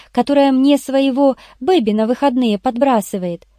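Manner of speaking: lightly voiced eager explainer; lightly voiced Irene. Irene reports her finds to the boss, lightly feminine.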